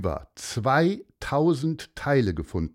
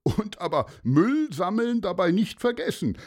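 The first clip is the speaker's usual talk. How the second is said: smiling reminder; 9 semitones higher than usual. Acted. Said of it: "lächelte Paulus".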